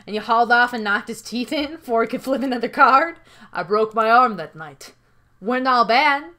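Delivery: rustic partners reminiscing fondly; country character voices, softening at line ends; the Johns bonding. Acted. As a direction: admit affection gruffly to an old buddy. The Johns affirm their partnership.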